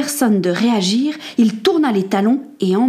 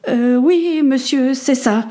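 put-on higher, hesitant boy's voice; sheepish admission; 4 semitones higher, slower than usual. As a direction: admit it meekly. Boy admits under questioning.

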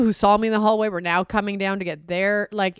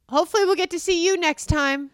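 high, chirpy, falsely polite goodbye; a sweet brush-off from the casting director; imitating the casting director, higher; casting director's send-off; 9 semitones higher, 4 dB louder than usual. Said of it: "the cast director said as I left".

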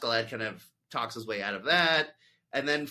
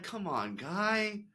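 exasperated; 5 semitones higher than usual. Retold or imitated. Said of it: "I'm like".

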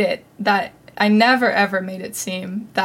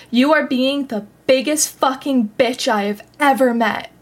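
mock yell, raised pitch, held-back volume; retold angry scream; 4 semitones higher than usual. Friend berating the speaker at a tournament, retold as a mild scream. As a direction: act out a furious outburst, only mildly raised. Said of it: "just starts screaming at me".

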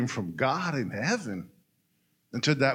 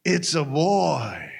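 calling out; much slower than usual. Acted. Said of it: "one of the ladies called out".

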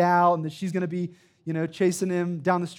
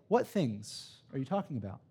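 much softer, inviting question; gentle Jesus voice; 3 semitones lower, 9 dB quieter than usual. Acted. Preacher voicing Jesus to the grieving disciples, soft and inviting. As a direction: ask it softly, like a friend leaning in. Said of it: "Christ has the boldness to say".

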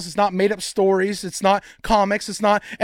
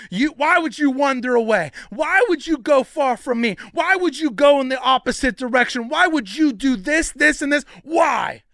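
mildly indignant, piled-up questions; accusing questions; 4 semitones higher than usual. Acted. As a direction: demand answers in mock reproach. Mimics God accusing someone.

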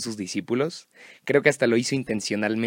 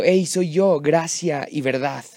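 loud call of Hey, soy yo, then slower; 3 semitones higher, 4 dB louder, slower than usual. Acted. Jesus calls to the disciples from the sea, loud then slow. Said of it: "Jesús gritando".

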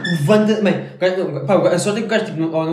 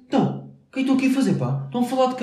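quick, pushy mock challenge, a touch higher; paranoid stranger; 5 semitones higher, faster than usual. Friends retelling how a stranger confronted them, mildly mock aggressive. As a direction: imitate a jumpy guy picking a fight.

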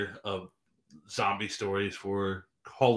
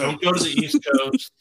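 high, loud, odd comic voice; loud mock warning; 9 semitones higher, 8 dB louder than usual. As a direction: bellow the warning like a joke. Joking warning about the coasts.

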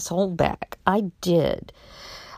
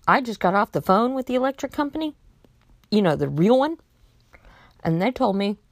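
higher-pitched, pointed retort with rising challenges; confrontational; 5 semitones higher than usual. Retold or imitated. Caller confronting a fake utility agent, pointedly triumphant. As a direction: lay out the proof, then challenge them. Retold confrontation of the phone scammer.

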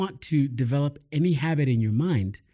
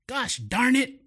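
mock curse; 9 semitones higher, slower than usual. Stubbing a toe, bleeding.

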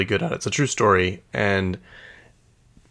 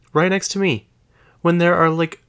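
high, incredulous outburst; outraged disbelief; 8 semitones higher, 5 dB louder than usual. Real, not acted. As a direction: sound shocked they'd sit there. Indignant retelling.

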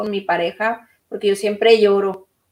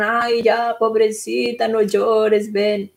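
mock pity; slower than usual. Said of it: "quiero que me digan".

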